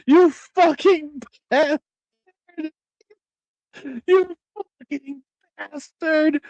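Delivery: hammed-up angry rant at a friend, slowed; mock rage. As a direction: spit out the insults in mock fury. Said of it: "I was like".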